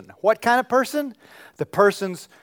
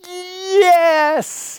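much higher, louder cry of joy; elated yes; 14 semitones higher, 6 dB louder than usual. Retold or imitated. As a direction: burst out with sheer joy. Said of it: "And you just think".

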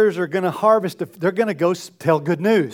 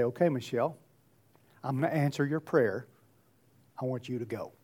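lower, much softer, gentle voice of God; God answering; 6 semitones lower, 10 dB quieter, faster than usual. Retold or imitated. God answering Michelle's prayer, softly sending her out. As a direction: speak as God quietly calling her. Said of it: "God's gonna turn around and say".

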